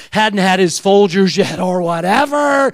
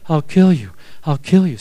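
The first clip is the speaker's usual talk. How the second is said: low, evenly repeated threat; threat echoing in head; 5 semitones lower than usual. Retold or imitated. Dad's threat heard while pinning corsage, low echo. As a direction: drop it low and toll it steadily. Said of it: "was hearing in my head".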